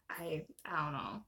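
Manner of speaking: breathy whisper to herself. Real, not acted. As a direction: drop to a whisper. Muttered unsure aside.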